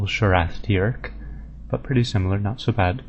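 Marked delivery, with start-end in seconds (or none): 0.0-1.1 slow Sharath Tirk said "shur-ATH teerk"; "Sharath Tirk" with a full "ath"; official pronunciation. Shown as a demonstration. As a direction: stretch Tirk with a long "ee". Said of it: "more emphasis on the first syllable".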